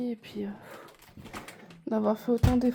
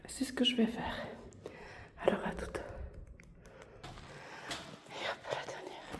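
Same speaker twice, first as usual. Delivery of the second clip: whispering; 14 dB quieter than usual. Real, not acted. Whispering to not wake baby.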